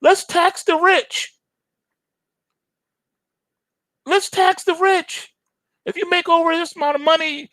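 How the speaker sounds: sneering high voice mocking the government; mocking politician. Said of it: "when they say these wild things".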